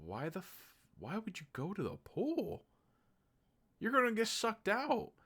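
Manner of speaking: rising mock-outraged protest; incredulous outburst. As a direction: pitch climbing high in disbelief. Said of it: "And I kept going".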